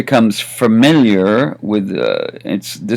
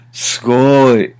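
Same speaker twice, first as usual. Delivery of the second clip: impressed wow; 2 semitones higher than usual. Shown as a demonstration. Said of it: "There are a million ways to say it".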